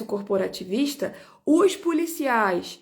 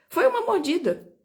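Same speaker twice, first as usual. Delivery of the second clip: ordinary talk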